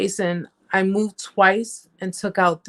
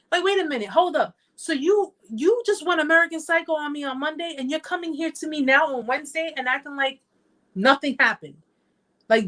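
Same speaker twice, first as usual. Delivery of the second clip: raised high, pushing back in disbelief; incredulous confrontation; 6 semitones higher than usual. Retold or imitated. To the narcissist about Monday's rage, high incredulous challenge. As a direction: call out the narcissist who acts like nothing happened.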